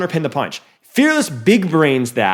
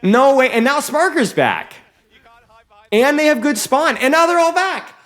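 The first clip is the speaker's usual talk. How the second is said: excited casting; 9 semitones higher than usual. Real, not acted. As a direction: keep the hype going. Caster still hyped.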